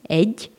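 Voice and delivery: egy ending in the Hungarian gy; Hungarian gy sound. Shown as a demonstration. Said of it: "Diesen Laut findet man in der Zahl".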